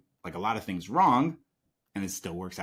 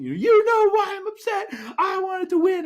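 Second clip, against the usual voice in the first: put-on high, loud, tearful child's wail; retold angry crying; 8 dB louder than usual. Upset boy wailing at his dad after losing, crying. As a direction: cry it out like an upset eleven-year-old who lost. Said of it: "And now I'm, like, angry, crying".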